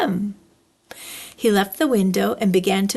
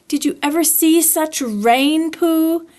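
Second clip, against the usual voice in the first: lightly voiced Piglet, a bit higher; small piglet chatting about the rain; 5 semitones higher than usual.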